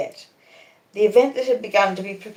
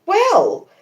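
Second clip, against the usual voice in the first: WELL punched high and loud, falling; emphatic well; 13 semitones higher, 6 dB louder than usual. A narrator's reading. Pip hurling Estella's word back at her, emphatic Well. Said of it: "repeating it with emphasis".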